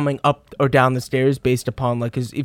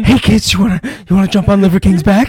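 loud cheery shout; 5 semitones higher, 8 dB louder than usual. Retold or imitated. Strahan voiced bursting in.

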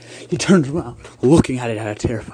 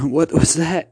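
scared; 5 semitones higher than usual. Acted. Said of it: "You said, scared".

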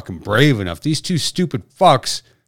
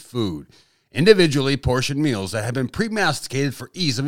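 upbeat commercial announcer voice; mock ad read. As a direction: sell it like a cheesy TV ad. Fake promo ad read.

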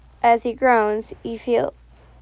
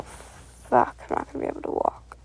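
mumbled; 6 dB quieter than usual. A narrator's reading. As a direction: mumble it voicelessly to yourself. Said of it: "And you mumble".

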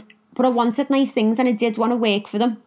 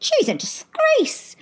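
mock outraged caller; much slower than usual. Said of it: "Everyone was phoning up the talk show".

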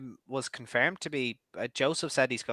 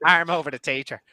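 laughing; 5 semitones higher, 7 dB louder than usual. Real, not acted. Joking about a communion picture.

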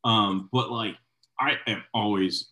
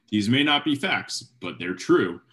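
mock slogan read; 3 semitones higher, 4 dB louder than usual. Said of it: "the slogan is literally".

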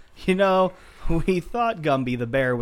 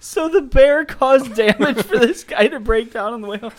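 bear voice; 6 semitones higher, 4 dB louder than usual. Pretend. Bear plotting revenge.

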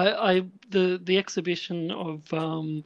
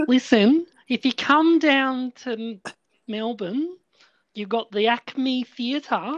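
exaggerated mock Australian accent, higher and slow; over-the-top fake Australian accent, pitched up; worst Australian accent; 5 semitones higher, slower than usual. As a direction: ham up a terrible Aussie drawl. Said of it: "I'm trying to put the worst Australian accent on".

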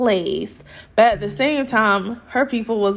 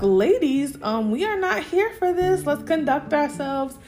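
imitated disturbed mother; 3 semitones higher than usual. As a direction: imitate a mother calling for decorum, slowing at the end. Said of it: "Mama Gwen is visibly disturbed".

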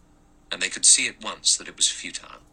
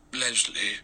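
soft, tender, slightly raised murmur; very gentle; 4 semitones higher than usual. A narrator's reading. General calls his lost wife's name, very gently. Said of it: "very gently and softly".

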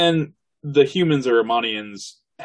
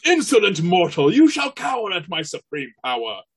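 higher, louder commanding deity voice; divine voice; 9 semitones higher, 5 dB louder than usual. Acted. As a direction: boom down at a lowly mortal. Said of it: "that was my divine voice".

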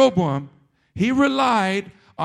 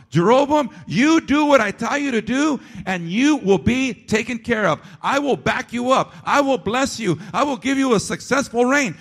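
louder, raised voice of God promising; God's promise; 3 semitones higher, 3 dB louder than usual. Acted. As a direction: proclaim it like God reassuring Jeroboam. Voicing God's promise to Jeroboam.

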